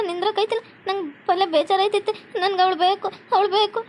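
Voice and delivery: acted weepy worry; mildly tearful, anxious wife; tearful pleading. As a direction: plead as if close to tears. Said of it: "ಏ, ಅಳ್ಬೇಡಮ್ಮ".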